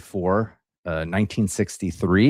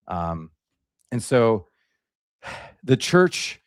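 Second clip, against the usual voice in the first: out of breath; much slower than usual. Real, not acted. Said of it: "excuse me, I'm still catching my breath".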